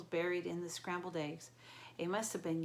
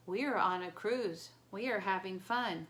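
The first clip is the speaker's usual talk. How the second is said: monotone trance voice; 4 dB louder than usual. Acted. Entranced dad, blank.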